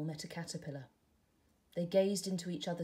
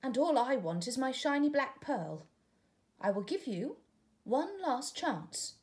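higher and louder, slowing on the last chance; stern caterpillar; 7 semitones higher, 5 dB louder than usual. Acted. Caterpillar to tadpole, warning him, higher and louder.

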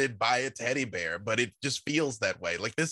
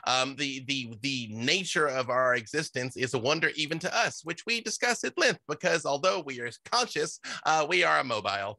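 awakened shrub; 3 semitones higher than usual. Acted. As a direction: apologize cheerfully as the shrub. GM voices the shrub again.

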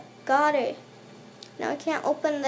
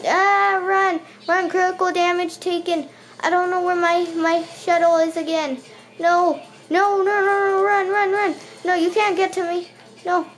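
panicked yelling; 4 semitones higher, 3 dB louder than usual. Real, not acted. Attacked again, fleeing.

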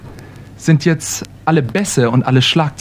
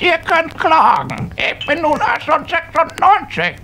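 put-on much higher, smug old man voice; 7 semitones higher than usual. Oldest man boasting to friends, much higher. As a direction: boast like a proud ninety-year-old.

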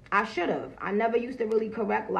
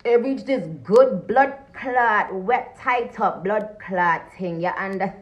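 slow, louder put-on Jamaican patois; fake Jamaican accent; 5 dB louder, slower than usual. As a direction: ham up a Jamaican accent, drawing it out. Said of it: "that fake ass accent".

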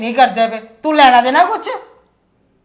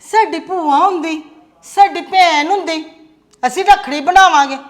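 mocking the kids; 4 semitones higher than usual. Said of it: "ਤੁਹਾਨੂੰ ਦੋਨਾਂ ਨੂੰ ਬੜਾ ਚਾਅ".

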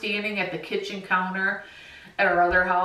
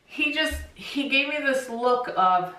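choked up, higher voice; holding back tears; 5 semitones higher than usual. Real, not acted. Owner recalling her dog's look, holding back tears. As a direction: push on haltingly through welling tears. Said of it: "I don't wanna start crying".

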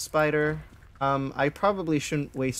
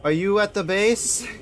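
higher, louder urgent question; urgent call; 7 semitones higher, 7 dB louder than usual. Real, not acted. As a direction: call out anxiously.

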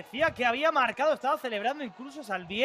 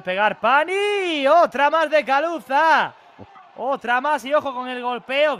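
excited; 6 dB louder than usual. Real, not acted. Chances in front of goal.

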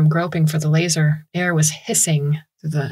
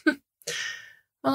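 cold amusement; 10 semitones higher, 8 dB quieter than usual. A narrator's reading. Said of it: "a high, cold laugh".

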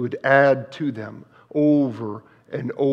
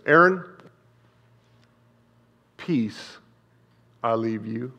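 tender voice of the Lord; 2 semitones lower than usual. Retold or imitated. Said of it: "the Lord said, "Read it this way".

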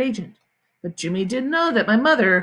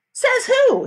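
high, loud snotty comeback; defiant challenge; 5 dB louder than usual. Acted. Sheila refuses to leave the boys' rocks, high defiant challenge. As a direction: throw it back at them, pitched up.

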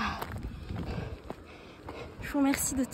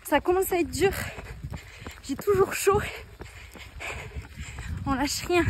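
while running. Real, not acted. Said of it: "parler en courant".

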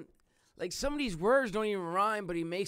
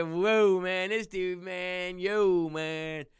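louder, hyped-up mock rapper; hammed-up echo of an excited rapper; playful loud imitation of a freestyle rapper's hype; rapper impression; 6 dB louder, much slower than usual. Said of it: "Harry Mack said".

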